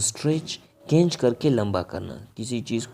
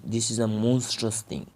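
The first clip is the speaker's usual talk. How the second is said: slow example; much slower than usual. Shown as a demonstration. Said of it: "teacher says example".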